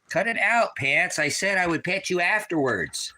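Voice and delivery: high scolding at the dog. Real, not acted.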